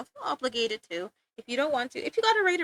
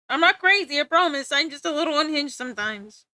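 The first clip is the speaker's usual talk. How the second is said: laughing protest; 3 semitones higher, 5 dB louder than usual. Real, not acted. Laughing insistence after laugh.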